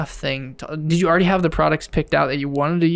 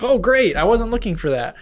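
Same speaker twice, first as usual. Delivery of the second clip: high, louder surprised exclamation; 8 semitones higher, 3 dB louder than usual. Retold or imitated. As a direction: act pleasantly caught off guard. Imitating surprised self.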